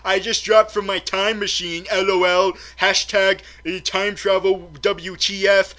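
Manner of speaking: millennial voice. Retold or imitated. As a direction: rattle off the hashtags like a chirpy teen online. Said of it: "like she was a millennial".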